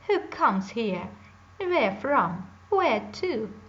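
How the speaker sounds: loud, slow, eerie witch sniffing. Acted. Baba Yaga greets the stranger at her door, loud witch voice. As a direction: sniff out the intruder like a hag. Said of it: "the witch with a broom".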